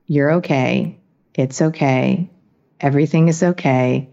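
low, measured self-reassurance; self-soothing. Retold or imitated. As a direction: soothe yourself gently, pitched a little low. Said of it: "these simple phrases of self-soothing".

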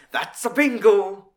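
high, loud, drawn-out gleeful exclamation; Christoph Waltz, chipper. Retold or imitated. Fan quoting Inglourious Basterds, high chipper shout. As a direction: crow it out in a chipper mock impression. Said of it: "Christoph Waltz. Just the way he, like, how fucking chipper he was".

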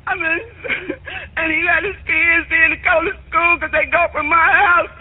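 sobbing, breaking up between words; crying. Real, not acted. Grandmother telling the dispatcher about the baby, sobbing. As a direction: weep and plead. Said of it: "stop crying".

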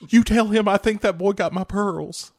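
lightly voiced old lady; mock lady. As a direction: demand it like a fussy old lady. Playing a lady.

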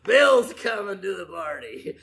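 laughing. Real, not acted.

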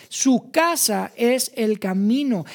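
Su casa es el camino said slowly, casa stressed; slow, stressed restatement. Shown as a demonstration. Preacher to his congregation, slow and stressed. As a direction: lean on casa, slow and deliberate.

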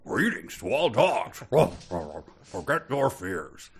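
lightly voiced cosmic star; soft, grand star speaking. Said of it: "I'm going to go ahead with this voice".

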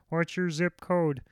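flat automated phone voice; robot voice. Retold or imitated. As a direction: talk like an automated phone line. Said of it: "that's my robot voice".

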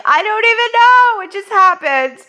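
high, loud, helpless exclamation; exasperated. Retold or imitated. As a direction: throw up your hands, pitched high. Exasperated reply to friend.

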